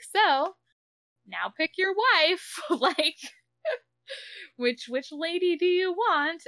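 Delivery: high, slow mocking alien voice; mock alien demand.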